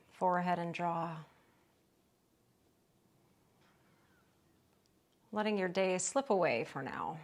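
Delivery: calm, unhurried yoga instruction with long pauses; guided relaxation. Real, not acted. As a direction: ease them gently into rest, leaving space between phrases. Leads restorative yoga relaxation.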